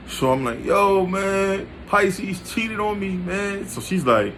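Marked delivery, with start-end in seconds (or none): 0.6-3.7 high, whiny tearful complaint; mock crying. Crying son telling mom he was cheated on, mock tearful whine. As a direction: imitate yourself whimpering, voice pitched up.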